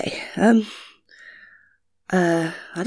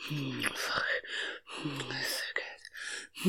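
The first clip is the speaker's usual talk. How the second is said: very slow, soft, lower whisper; drawn-out whisper; 6 semitones lower, 11 dB quieter, much slower than usual. Acted. Woman to lover, slow drawn-out whisper. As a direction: stretch every word out in a breath.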